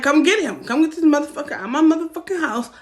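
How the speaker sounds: high loud shout at the sister; retold shout. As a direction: yell it down the phone. Yelling at sister on phone.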